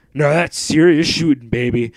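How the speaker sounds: loud, high cheer. Acted. Wilson cheering after the shot, loud and high. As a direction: crow it like a winner. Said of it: "he cheered".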